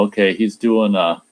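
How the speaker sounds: ordinary talk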